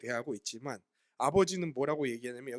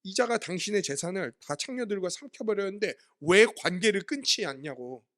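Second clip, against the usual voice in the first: angry retort; 4 dB louder than usual. Retold or imitated. Elder son railing at his father over his brother, angry. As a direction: spit out 이자가 with contempt. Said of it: "막 화를 내는 거예요".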